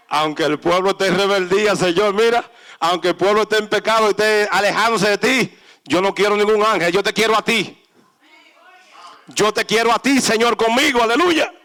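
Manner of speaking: loud, pleading prayer; fervent plea. Acted. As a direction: beg the Lord with full force. Moses pleading passionately.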